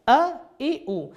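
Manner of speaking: ا، ای، او as separate "a, i, u"; three short vowels. Shown as a demonstration. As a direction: sound out ا، ای، او one by one. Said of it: "یہ تین آوازوں کے لیے".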